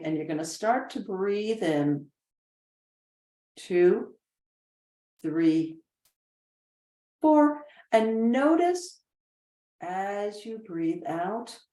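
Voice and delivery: slow meditation count with long pauses; guided breathing. Shown as a demonstration. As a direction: count the breath out slowly, word by word.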